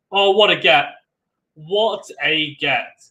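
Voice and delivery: impressed live commentator's cry; amazed exclamation. Real, not acted. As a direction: marvel at the shot, stretching the repeat. Amazed at a stunning retrieval live.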